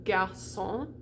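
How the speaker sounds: garçon à la française; French garçon. Shown as a demonstration. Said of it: "that little hook tells us that the C is gonna be pronounced differently".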